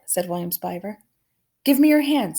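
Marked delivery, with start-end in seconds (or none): 1.6-2.4 firmer repeat. A narrator's reading. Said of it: "said Flora again".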